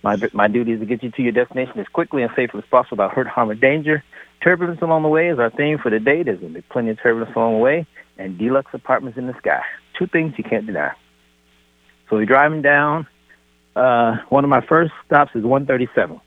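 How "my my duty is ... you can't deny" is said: pilot announcing to passengers; captain's cabin address; airport announcement. Pretend. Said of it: "this is your captain speaking".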